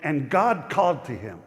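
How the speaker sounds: measured scripture read with "God" punched; stress on God. Shown as a demonstration. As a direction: lean on "God" as you read. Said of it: "I should have said it like this".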